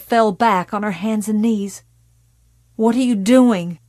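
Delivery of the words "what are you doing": croaked hoarsely. Acted. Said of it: "she croaked hoarsely".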